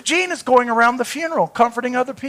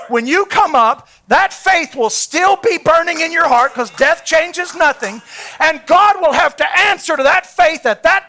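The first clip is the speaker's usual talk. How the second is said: rising preaching voice; 3 semitones higher than usual. Retold or imitated. Quoting Branham with rising force.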